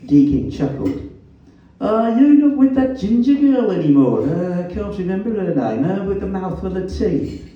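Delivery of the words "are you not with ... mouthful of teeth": put-on Black Country accent. A narrator's reading. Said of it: "His black country accent was as vowelish as ever".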